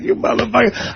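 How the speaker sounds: put-on drunk insult. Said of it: "I'm a drunk dick".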